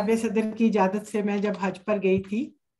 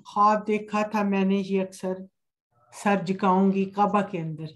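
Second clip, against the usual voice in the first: unhurried, measured verse with pauses; poetry recitation. Acted. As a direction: lay each line out gently for the audience. Recites her hamd at a mushaira.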